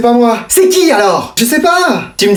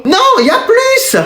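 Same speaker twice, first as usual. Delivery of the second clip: insistent high no; 12 semitones higher than usual. Acted.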